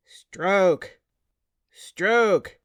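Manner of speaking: shouted rowing command; screaming. A narrator's reading. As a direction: yell the stroke call. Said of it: "Dwerg screams from the stern".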